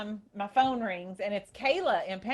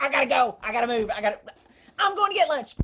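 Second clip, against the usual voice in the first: restless, excited urge; 3 semitones higher, 8 dB louder, much faster than usual. Retold or imitated. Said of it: "my whole insides are sitting here shaking".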